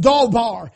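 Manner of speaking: "dawbar" said slowly as DAW-BAR; pronounced DAW-bar. Shown as a demonstration. Preacher teaching how the word is pronounced, careful. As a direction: sound out "dawbar" as two syllables, daw then bar. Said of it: "is pronounced like D A W".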